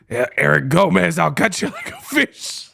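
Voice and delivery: mock killer threat, cracking up at the end; Ghostface voice. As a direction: menace the rival then lose it. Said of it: "Ghostface quote again".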